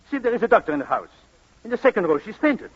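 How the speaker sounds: excited alarm. Acted. Alarm at fainting girl.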